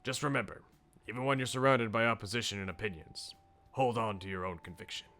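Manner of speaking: measured, earnest speechmaker giving advice; restrained, sincere mentor voice; mentoring politician. Acted. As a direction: share hard-won lessons with a young helper.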